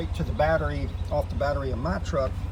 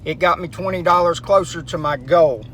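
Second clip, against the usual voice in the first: raised voice; 4 semitones higher, 10 dB louder than usual. Real, not acted. Talking over road noise while driving.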